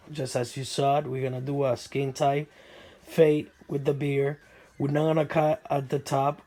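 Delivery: hoarse, under the weather; sick voice. Real, not acted. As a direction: talk through a sick, rough voice. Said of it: "sorry about my voice. I've been under the weather".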